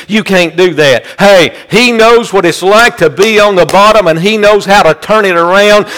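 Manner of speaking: rhythmic, driving sermon delivery; fervent preaching. Real, not acted. Preacher urging the congregation that he knows, fervent preaching. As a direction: preach it with insistent repeated cadence.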